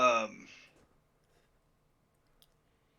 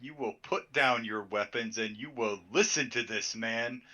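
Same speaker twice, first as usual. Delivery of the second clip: drill sergeant voice. Acted. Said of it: "in my best drill sergeant voice".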